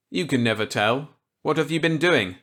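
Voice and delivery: put-on eager reply to an old colleague; Walker's voice. Walker accepting Millet's gambit eagerly.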